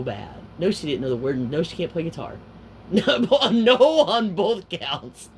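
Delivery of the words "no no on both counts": loud, slow, high-pitched verdict; emphatic no. Retold or imitated. Storyteller gives the verdict on Sherry, loud emphatic no. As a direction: hammer out each word, drawn out and loud.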